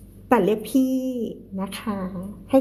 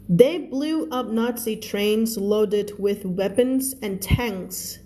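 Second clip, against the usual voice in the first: reads each English word slowly and clearly for learners; slow, careful read-aloud for the class; slow story reading; much slower than usual. Shown as a demonstration. Teacher reads the book slowly to her students, careful read-aloud.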